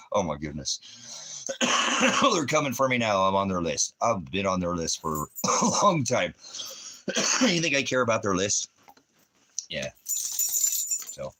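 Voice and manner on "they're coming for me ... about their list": loud, half-joking defiance. Pretend. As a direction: shout it out, playfully defiant. Mock paranoid outburst.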